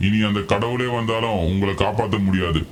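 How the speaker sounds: low, soft menacing villain voice; villain threat. Acted. Villain gloats to Franklin, low and menacing.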